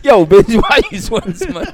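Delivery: mocking a sweaty partner in a put-on AAVE voice. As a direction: ham up a caricature street voice. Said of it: "goes to black voice".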